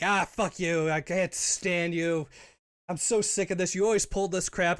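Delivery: playful, mildly exasperated rant; mock bickering. Co-host imitating their running on-air squabble, mock exasperation.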